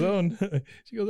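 high fast Peggy impression. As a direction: voice her high and quick. Voicing Peggy in the retelling.

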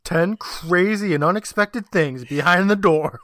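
slow, hyped listicle read; clickbait video narrator. Pretend. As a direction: drag out the clickbait title.

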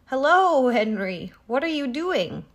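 big, loud "Hello" swooping down from high; neighing horse. A narrator's reading. Horse greets Henry by his stable, neighing. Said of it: "neighed Mister Brown".

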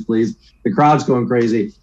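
ordinary delivery

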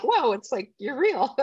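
high, amused mock surprise; retold amazement. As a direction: act out wonder at meeting an online friend. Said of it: "We're like".

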